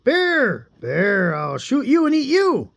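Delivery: high calls to the bear; calling threat. Acted. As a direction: call out, hungry and threatening.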